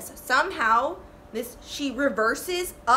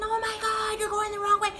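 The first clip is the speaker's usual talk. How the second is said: mild mock panic; 10 semitones higher than usual. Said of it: "We're all freaking".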